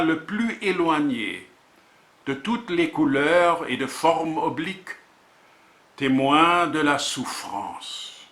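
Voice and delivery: measured poetry reading with deliberate pauses; poem recitation. Acted. Poet presenting a volume of words and images, reciting. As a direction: recite in short, separated phrases, letting titles stand alone.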